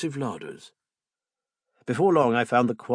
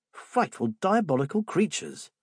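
cried; 8 semitones higher than usual. Acted. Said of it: "the young Joe cried".

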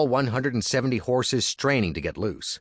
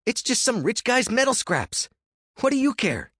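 higher, pushy younger brother; Andy's voice. Acted. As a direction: urge him on, high and eager. Andy voiced.

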